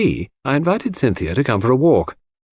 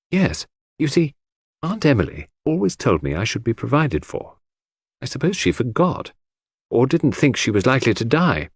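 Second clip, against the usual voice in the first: put-on higher young woman's voice, mildly anxious; troubled Cynthia; 3 semitones higher than usual. Cynthia asking Hastings whether to go away, mildly troubled. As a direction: confide a worry in a lifted voice.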